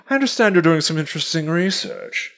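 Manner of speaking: mildly mocking pretentious voice; pretentious professor. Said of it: "it's pretty pretentious aggro".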